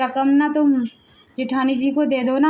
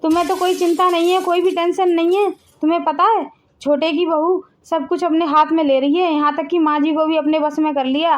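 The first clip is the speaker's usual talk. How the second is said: agitated complaint; 3 semitones higher than usual. Acted. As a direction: push him to act, worked up and quick. Wife complains to husband, agitated. (पति से घबराई, तेज़ और ऊँची आवाज़ में शिकायत)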